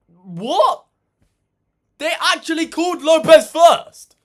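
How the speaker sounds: loud, high disbelieving shout; shocked outburst. Real, not acted. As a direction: yell it like you can't believe the news.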